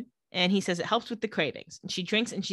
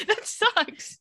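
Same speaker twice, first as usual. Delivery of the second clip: mock whine; 13 semitones higher than usual. Real, not acted. Exaggerated sympathy for Elena.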